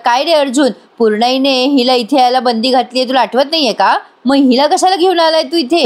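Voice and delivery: mock-stern telling-off that builds up; angry scolding. Prataprao scolding Arjun for bringing her home, angry. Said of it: "Prataprao चिडतात आणि म्हणतात".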